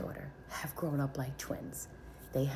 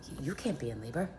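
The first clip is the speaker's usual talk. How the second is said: retold angry sputter, rising in pitch; mad sister; 5 semitones higher than usual. Older sister objecting to her sibling's labor, mad. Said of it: "she was mad at me".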